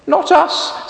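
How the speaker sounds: very high clucking chickens. Acted. Chickens refusing to push, very high and squawky. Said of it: "say the chickens".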